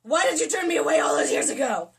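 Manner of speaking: breathless stage whisper; dramatic whisper. Acted. Heroine to Carr, a hammed-up whisper. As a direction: whisper it like a secret plea.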